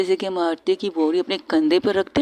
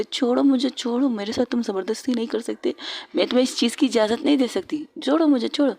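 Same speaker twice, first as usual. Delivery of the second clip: protesting cry; 4 semitones higher than usual. Acted. Girl struggling to be let go.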